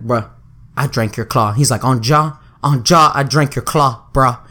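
deadpan frat bro. Retold or imitated. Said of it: "And so then he's like".

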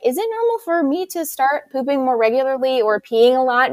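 imitating questioning clients. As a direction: lightly imitate a client asking. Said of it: "So I'll have people like".

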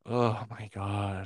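gasping, slow shocked voice. Real, not acted. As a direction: gasp then say it slowly. Gasps at the story.

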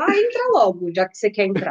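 resigned mock invitation to a ghost; resigned dare. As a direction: give up and wave the ghost in. Talking to a ghost at the door.

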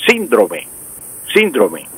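síndrome stressed SÍN-dro-me; esdrújula stress. Shown as a demonstration. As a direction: hit the first syllable of síndrome. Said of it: "palabra esdrújula".

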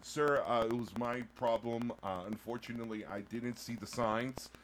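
carefully enunciated, polite plea; lightly put-on proper English, measured; white voice. Host pleading with a judge over a ticket, white voice. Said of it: "do your white voice".

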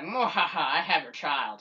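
slow evil villain gloat; mad scientist. Retold or imitated. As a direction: cackle it like a cartoon villain. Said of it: "he's like".

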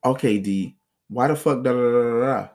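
imitating a girlfriend's mild mock yell; mocking ex's yelling. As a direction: act out her yelling at you. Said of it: "let me show you this".

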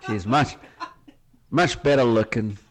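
lightly voiced American politician; halting folksy American correction, in short pieces; deadpan American statesman stumbling through remarks; George Bush impression. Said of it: "That was a really good George Bush".

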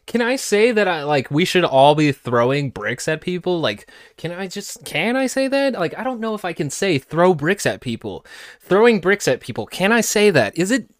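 high, whiny mock voice of the guest asking permission; sarcastic impression of a man asking if he can call for violence; mocking imitation. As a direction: pitch it up and play him as a giddy fool. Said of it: "him just being like".

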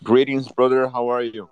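rough, worn-out hoarse voice. Real, not acted. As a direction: voice hoarse from yelling. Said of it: "I lost my voice from yelling".

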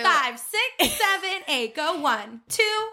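peppy high count-in; cheerleader. Acted. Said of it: "That's my cheer voice".

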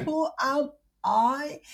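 weary question. Real, not acted. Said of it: "You are exhausted".

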